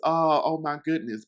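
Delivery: high, loud gushing imitation of her; overwhelmed excitement. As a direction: gasp it out like she can't believe it. Repeating her reaction again.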